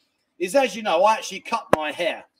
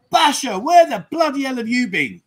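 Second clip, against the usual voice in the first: mock outraged call; 5 semitones higher, 7 dB louder than usual. Host calls out a missing regular, mock outraged. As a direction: raise your voice as if demanding an explanation.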